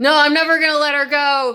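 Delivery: angry, loud, high, heated man's outburst. Giving an example of a confrontation with a really angry man: imitating an angry man. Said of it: "he's really angry".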